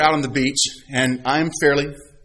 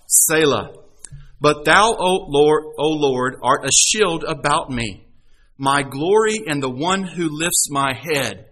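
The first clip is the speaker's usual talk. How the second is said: scripture reading. Acted. Preacher reads Psalm three to the congregation, earnest. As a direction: read the psalm like a prayer.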